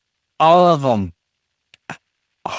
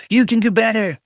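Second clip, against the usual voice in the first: mock pep talk; 5 semitones higher than usual. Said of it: "Give it a little pep talk".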